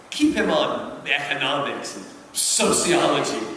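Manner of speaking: reading a devil's letter aloud with theatrical relish; dramatic reading. Acted. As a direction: savour each line like a sly old demon uncle. Reads Screwtape letter aloud.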